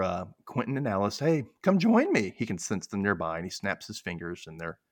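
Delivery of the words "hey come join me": higher-pitched call to companions; mild mock yell. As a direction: imitate someone calling others over, lightly. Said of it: "Martin yells for".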